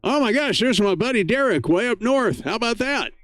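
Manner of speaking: excited. Real, not acted. Greeting an old friend on air.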